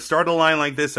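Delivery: crisp American r's, as in a read line; American accent. Shown as a demonstration. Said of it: "halfway through the line".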